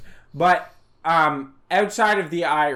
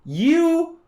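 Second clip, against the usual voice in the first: mock angry insult; 11 semitones higher, much slower than usual. Ranting about old Greek landlords.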